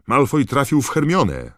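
very high, loud cry; urgent shout. A narrator's reading. Ron tells Snape about Hermione, urgent shout. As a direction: call out the accusation. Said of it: "zawołał Ron".

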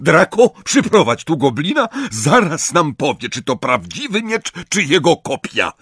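loud commanding father; Lucius. A narrator's reading. Lucius sends Draco for the goblin, loud command. Lucius orders his son.

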